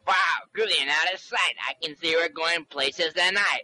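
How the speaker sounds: smooth radio deejay patter, a bit rushed; disc jockey voice. Acted. Nervous kid faking a deejay for the reporter. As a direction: rattle off the deejay catchphrase fast. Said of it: "a disc jockey voice".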